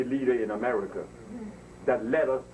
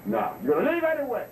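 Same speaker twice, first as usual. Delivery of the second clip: higher, scoffing imitation of her; mock dismissal; 11 semitones higher than usual. Mimicking the prime minister as she throws him out, scoffing. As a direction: toss it off like she's done arguing.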